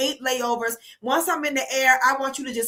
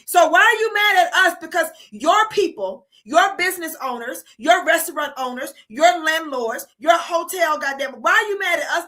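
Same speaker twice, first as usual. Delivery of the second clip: higher and louder, demanding an answer; exasperated, raised challenge; indignant rant; 4 semitones higher, 3 dB louder than usual. Real, not acted. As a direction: fire the question at them.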